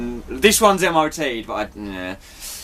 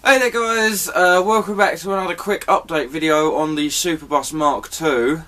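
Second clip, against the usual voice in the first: video intro; 3 semitones higher than usual. Acted. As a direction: greet viewers in a raised presenter voice. Another intro take.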